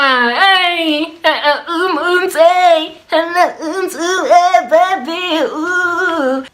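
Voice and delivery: high, playful dance-out chanting; singsong party whoops, acted out; excited party hype. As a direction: hype yourself up like you're dancing out the door. Acting out dancing out excitedly.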